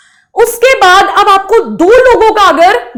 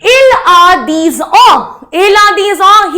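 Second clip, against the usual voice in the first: slow model sentence; 2 semitones higher, 3 dB louder, much slower than usual. Shown as a demonstration. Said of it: "teacher models French sentence".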